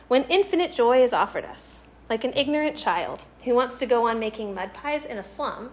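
measured, emphatic read-aloud of a literary quote; reading a quotation. Acted. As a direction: read it out with lifted, stressed key phrases.

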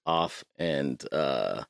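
boxy closet sound; recorded in a small closet; inside a closet. Real, not acted. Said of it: "we're recording in the closet".

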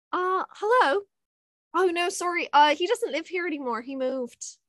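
high, lightly put-on English accent sliding into Irish; English then Irish accent. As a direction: answer the phone as someone else. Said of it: "change nationalities ... English to Irish".

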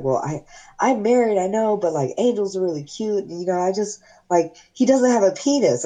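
high-pitched mimicry of a hesitant coworker; imitated coworker protesting.

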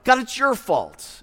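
a husband's high, loud whining accusation; whiny Adam. Pretend. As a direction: wail the blame at God. Adam blames God again.

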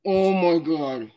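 slow, cracking voice breaking up. Real, not acted. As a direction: let the voice crack on it. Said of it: "one of the worst voice cracks I've ever heard".

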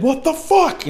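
high-pitched mock scream; retold scream. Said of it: "if I screamed or I yelled".

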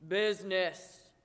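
Marley's ghost crying out; ghost cries out. A narrator's reading. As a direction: cry it out wringing hands. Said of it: "cried the ghost".

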